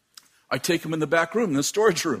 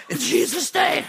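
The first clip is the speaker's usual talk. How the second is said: high, shouted command in Jesus' name; shouted rebuke; 9 semitones higher than usual. Retold or imitated. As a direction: cry out the rebuke at full force. Preacher battling demon, shouting.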